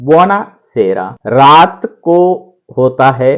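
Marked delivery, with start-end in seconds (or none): 0.0-1.1 buonasera drawn out syllable by syllable; repeat-after-me drill; slow model word. Shown as a demonstration. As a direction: stretch buonasera slowly, over and over. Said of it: "साथ में बोल करके repeat कीजिए".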